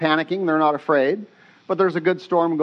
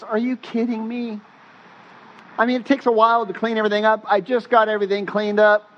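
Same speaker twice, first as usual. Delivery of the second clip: higher-pitched, hurried complaint; incredulous protest; 4 semitones higher, faster than usual. Retold or imitated. Peter objecting to going back out, incredulous. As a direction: act out an exasperated objection.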